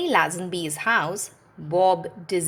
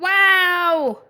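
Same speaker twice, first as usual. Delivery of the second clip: much higher, louder excited wow; excited Rolly; 12 semitones higher, 8 dB louder than usual. A narrator's reading. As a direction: burst out in delight. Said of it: "Rolly rumbled".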